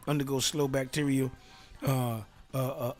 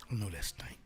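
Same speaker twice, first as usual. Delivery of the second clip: whisper; 6 semitones lower, 9 dB quieter than usual. Acted. Whispered aside about stink.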